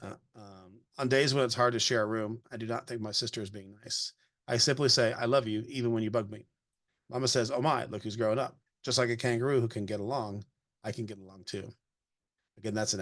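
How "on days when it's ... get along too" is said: gentle storybook read-aloud voice; reading a picture book aloud. Acted. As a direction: read it to a child, evenly paced.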